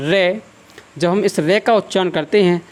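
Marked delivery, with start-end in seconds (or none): 0.1-0.4 रे with the R rolled on the tongue; demonstrated R sound. Shown as a demonstration. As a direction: sound out रे, letting the tongue curl and vibrate. (जीभ कंपाकर रे का उच्चारण)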